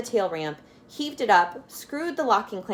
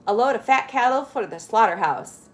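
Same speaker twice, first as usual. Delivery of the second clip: untruthful claim; 3 semitones higher, 4 dB louder than usual. Acted. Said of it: "he added, very untruthfully".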